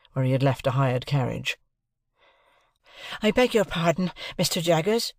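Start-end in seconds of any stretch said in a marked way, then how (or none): 3.2-5.1 higher, deferential youth's voice; polite young Pip. A narrator's reading. Pip runs after the lawyer, politely anxious. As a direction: politely call for his attention.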